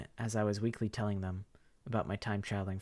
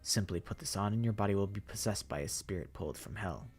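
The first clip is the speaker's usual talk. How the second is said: courteous zombie voice. Acted. Zombie Professor.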